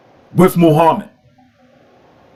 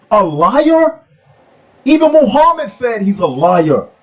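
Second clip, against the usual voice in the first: heated; 4 semitones higher than usual. Real, not acted. Heated preaching attack on Islam.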